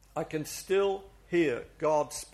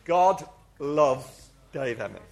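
slow declaration; 4 semitones lower, slower than usual. Shown as a demonstration. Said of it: "I'm gonna say my name".

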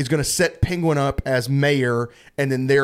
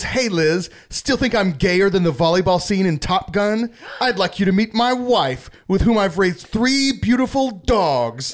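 smug raised voice, slowing on the last line; quoting Rob Sussman; 5 semitones higher than usual. Retold or imitated. Podcaster quoting a smug sitcom character to friends, higher and slow at the end. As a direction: gloat it, savouring each word. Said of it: "he says".

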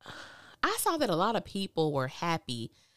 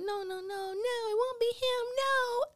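very high, cutesy crying whine; Care Bear whine; slower than usual. Retold or imitated. Mocking Sabrina denying the bank guy, high whiny crying. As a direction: whimper it in a tiny Care Bear voice. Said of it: "She sound like a darn Care Bear".

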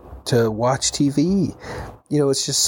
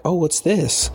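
higher, playful fake surprise; mock surprise; 6 semitones higher, slower than usual. Kid reacting to the hidden Santa present, higher mock surprise. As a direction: play along like it's a surprise.

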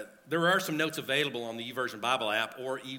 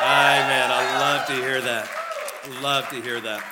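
excited; 8 dB louder than usual. Real, not acted. Pastor calls out to congregation.

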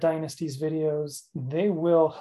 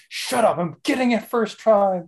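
higher, mock-exasperated comeback; mock defiant retort; 4 semitones higher than usual. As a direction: playfully snap back at the nagging voice. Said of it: "And I'm like".

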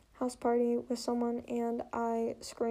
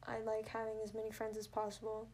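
whisper; 5 dB quieter than usual. Real, not acted. Late-night recording, voice hushed.

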